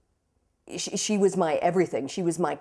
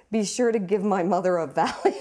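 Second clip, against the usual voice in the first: laughing quote. Retold or imitated. Laughing retelling own request.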